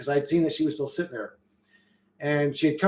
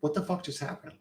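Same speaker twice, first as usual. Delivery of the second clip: stunned disbelief; 11 dB quieter than usual. Retold or imitated. Stunned after meeting the husband.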